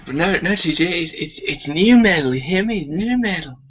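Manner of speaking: high, insistent put-on protest; mock pleading. Teasing his co-host as a genre fan, mock pleading. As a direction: plead the case in a high comic voice.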